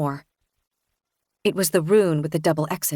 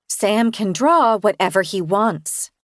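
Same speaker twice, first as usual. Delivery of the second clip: strained gentle; slower than usual. Acted. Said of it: "struggling to keep my voice gentle".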